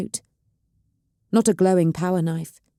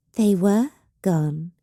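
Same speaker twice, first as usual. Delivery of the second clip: with a smile; slower than usual. Acted. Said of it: "Evelyn replied with a smile".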